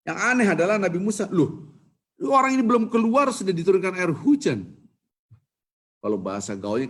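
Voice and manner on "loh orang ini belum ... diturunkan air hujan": surprised Moses. Acted. Musa surprised rain already falls.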